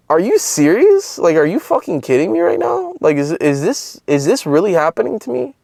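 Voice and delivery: high-pitched, disbelieving questions; can't believe it, pitch leaping up; incredulous. Retold or imitated. Reacting to his picture at the hospital, incredulous.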